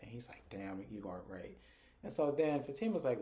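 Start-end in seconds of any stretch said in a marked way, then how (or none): 0.5-1.6 resigned concession. Retold or imitated. Zach conceding to Fatima.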